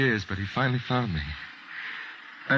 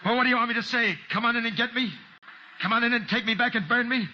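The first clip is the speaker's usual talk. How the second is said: higher, rising anger, pushing back hard; bitter outburst; 5 semitones higher than usual. Acted. Hunted man snaps at his friend, bitter and high. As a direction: let the fear boil over into anger.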